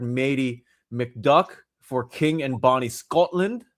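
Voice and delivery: slow, hammed-up bad Scottish accent; mock Scottish brogue, badly done; terrible Scottish accent. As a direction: lay on a clumsy Scottish accent, slowly. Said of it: "That was a terrible Scottish accent".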